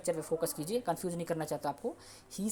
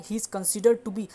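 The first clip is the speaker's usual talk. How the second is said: slow and louder structure phrase; slow, emphatic model; 6 dB louder, much slower than usual. Shown as a demonstration. Teacher stressing the structure for students. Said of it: "तो ये हो गया".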